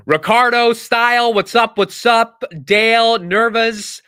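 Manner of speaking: loud, high-pitched shout-outs to viewers; calling out greetings. Real, not acted. Livestream host greets viewers by name, calling out. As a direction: call names out loudly to the crowd.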